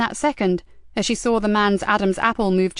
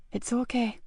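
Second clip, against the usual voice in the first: much softer soothing; calm reassurance; 3 semitones higher, 9 dB quieter than usual. Acted. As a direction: settle her down. Medic calmly.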